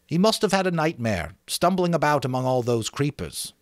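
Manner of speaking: a schoolboy showing off his island; Ralph, excited about the island; boy Ralph, eager. Acted. Ralph voiced.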